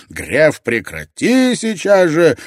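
loud, high, desperate command; straining yell. A narrator's reading. Scharführer tries stopping Gref from shooting, straining yell. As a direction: shout yourself hoarse to stop him. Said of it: "надрывался шарфюрер".

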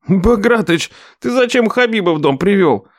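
outraged nephew complaining; indignant nephew. Acted. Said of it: "возмутился племянник".

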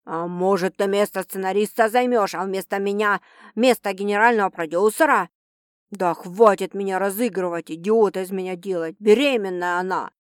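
mock her with contempt; sarcastic producer.

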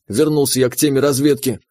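plain reading voice

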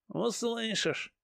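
ominous. Acted. Changer's ominous threat.

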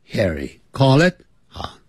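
normal talking voice

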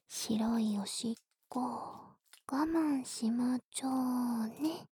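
put-on slow cooing baby-talk whisper. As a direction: coo it slowly like to a baby.

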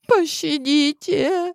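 high, drawn-out wail; wailing plea. A narrator's reading. Girl on her knees begging mercy, slow wail. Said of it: "завыла она".

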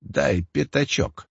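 slow, soft toothless mumble; mumbling old man. Pretend. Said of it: "прошамкал".

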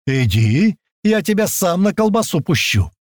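high, heated shouting threat; angry threat. A narrator's reading. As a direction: threaten back across the clearing.

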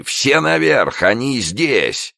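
high, slow alarm call; man yelling to his gang upstairs; shout. Acted. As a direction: raise the alarm across the stairwell. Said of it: "закричали".

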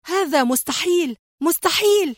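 high, disbelieving repetition rising further; stunned repeating. A narrator's reading. Antoine seeing Adham survive, stunned high disbelief. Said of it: "ردد في ذهول".

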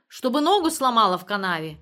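loud, cross scolding; angry. A narrator's reading. Ageev fretting over his wife walking, angry. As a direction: scold with a burst of volume. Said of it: "рассердится".

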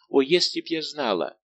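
a cry of regret; anguished cry. A narrator's reading. Louise cries out. (отчаянный возглас)

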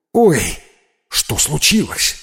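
sudden alarmed cry, then a hushed question; startled boy calling after his friend; frightened. Acted. Миха испуганно зовёт исчезнувшего друга, вскрик и тихий вопрос. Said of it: "испугался Миха".

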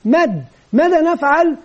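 a kindly teacher's coaxing question; teacher coaxing a pupil; gentle correction. Retold or imitated. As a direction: lead the child gently to the answer. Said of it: "نقول له".

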